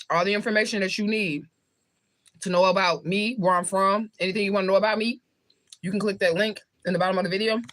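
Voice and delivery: talking with a mouth full of chocolate; words round a bite of food. Real, not acted. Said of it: "I don't like to talk with my mouth full".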